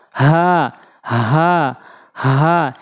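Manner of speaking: হা breathy from the start of the throat; light হা from the top of the throat; small ha. Shown as a demonstration. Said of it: "এই হা হলকের শুরু থেকে উচ্চারণ হয়।".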